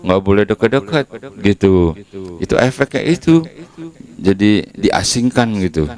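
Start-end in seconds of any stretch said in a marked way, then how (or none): 0.0-1.1 high, scornful shoo-away voice; sharp mock disgust at a leper; shooing people. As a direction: chase the sick man off in disgust. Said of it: "orang nggak mau dekat".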